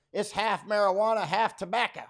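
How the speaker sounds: lightly voiced older woman; quoting Viola. Viola telling the boy about her pipe, lightly voiced. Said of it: "She goes".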